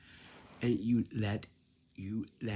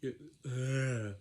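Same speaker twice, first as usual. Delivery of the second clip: short demonstrated yawn sound; brief mock yawn; demo yawn; 3 semitones higher than usual. Shown as a demonstration. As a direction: act out a little yawn. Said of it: "yawn, yawn".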